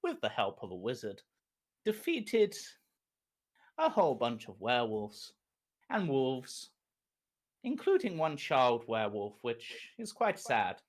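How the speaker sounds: storyteller recap of last episode; recap narration. Acted. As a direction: set the scene like a TV recap.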